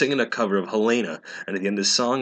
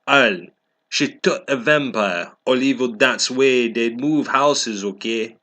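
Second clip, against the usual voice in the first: snotty author voice; 3 semitones higher, 4 dB louder than usual. Acted. The author scolds her critics, mock bratty rant. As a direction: huff at the haters like a bratty fanfic writer. Reads the author's note aloud.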